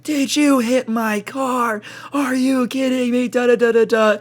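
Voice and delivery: high mock old lady scolding. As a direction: squeak out her outrage.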